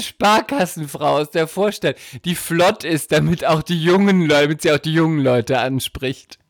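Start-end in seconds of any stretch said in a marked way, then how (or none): none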